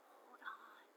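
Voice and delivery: soft unvoiced whisper, far away. A narrator's reading. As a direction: breathe it like a voice in her mind. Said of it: "just a whisper at first".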